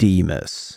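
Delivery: slow, deep, deliberate, drawn-out delivery. Repeating a name again on purpose, saying it slower and deeper. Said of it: "but slower and deeper".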